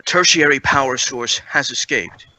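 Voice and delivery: flat, even announcement voice; monotone computer voice. Acted. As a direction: read it like a ship's monotone computer. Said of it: "monotone voice".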